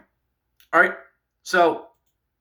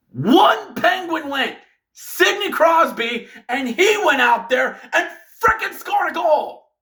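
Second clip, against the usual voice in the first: heated rant; 4 semitones higher than usual. Real, not acted. Fan ranting to followers about the Capitals, heated. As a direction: build the outrage word by word.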